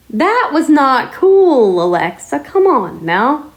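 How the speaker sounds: slow, drawn-out mock telling-off; exasperated, stretched-out reprimand; retold scolding. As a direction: start high and slow, scold like a fed-up owner. Retelling scolding Alexa for whispering.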